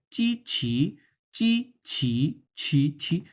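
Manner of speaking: "চিছি" with a big puff on "ছি"; strongly aspirated "ছি". Shown as a demonstration. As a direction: push lots of air out on each "ছি". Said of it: "ছি যখন বলছে, তখন অনেক পরিমাণ বাতাস". ("ছি"-তে অনেক বাতাস)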